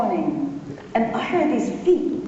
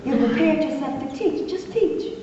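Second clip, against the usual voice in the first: daddy's voice; 5 semitones higher than usual. Retold or imitated. Father's voice in retold scene.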